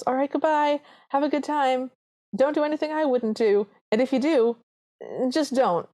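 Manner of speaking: high-pitched farewell with warnings; fussing godmother. Retold or imitated. Fairy godmother seeing Cinderella off to the ball, high fussing voice.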